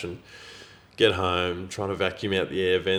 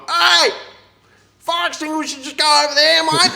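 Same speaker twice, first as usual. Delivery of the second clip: high shouted call across the yard; 5 dB louder than usual. Retold or imitated. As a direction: yell it out like a bloke on a telehandler. Worker at tip calling out.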